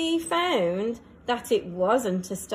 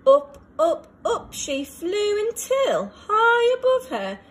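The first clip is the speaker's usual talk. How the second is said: rising excitement; 8 semitones higher, 4 dB louder than usual. A narrator's reading. Narrator reading to children, rocket climbing, high and excited. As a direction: voice climbing high and loud with each up.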